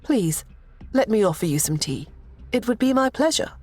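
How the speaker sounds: a hint of a gracious young royal; young princess voice. Princess Lucy speaking.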